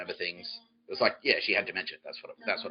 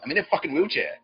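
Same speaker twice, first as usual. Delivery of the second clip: high, loud acted indignation; exasperated outburst; 9 semitones higher, 9 dB louder than usual. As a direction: protest loudly, voice pitched right up. Mother's acted outburst at doctors.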